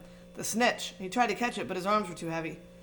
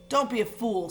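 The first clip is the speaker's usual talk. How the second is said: snarl; 3 semitones higher than usual. Acted. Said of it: "snarled the face".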